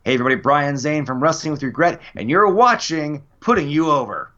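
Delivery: upbeat station ID read; wrestling promo. Shown as a demonstration. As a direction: hype it up like a promo intro. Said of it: "Would you like to cut a station I D?".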